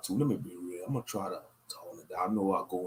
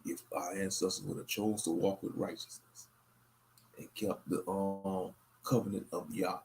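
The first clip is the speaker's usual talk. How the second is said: monotone. Real, not acted. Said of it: "I sound a little monotone".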